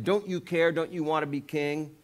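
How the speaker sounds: Saul's high, pressing rebuke; an exasperated king scolding his son; exasperated father. Retold or imitated. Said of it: "In other words, saying".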